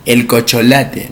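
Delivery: cocholate with the syllables swapped; wrong pronunciation. Shown as a demonstration. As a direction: say cocholate as a mistake. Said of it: "no es cocholate". (pronunciación errónea cocholate)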